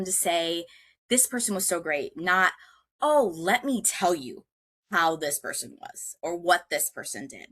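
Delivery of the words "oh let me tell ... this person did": gossipy tone. Shown as a demonstration. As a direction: lean in like spilling dirt on someone. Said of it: "you can hear the inflection in my voice, how that tone changed".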